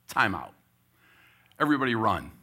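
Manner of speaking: loud coach call; calling timeout. Retold or imitated. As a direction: shout across the court to the team.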